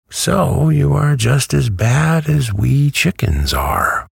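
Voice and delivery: very high-pitched hen voice; high, lightly cackling comeback. A narrator's reading. Hen proves Dorothy just as bad, high cackling retort. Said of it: "with an odd cackle".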